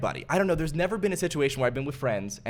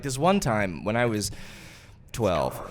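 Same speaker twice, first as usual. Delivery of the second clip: mock storyteller opening; 5 semitones lower, slower than usual. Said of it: "You just start the story like".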